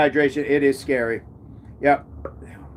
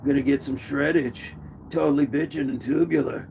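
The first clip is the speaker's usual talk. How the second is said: put-on SoCal surfer accent; 4 dB quieter than usual. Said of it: "I'm gonna have a SoCal accent too".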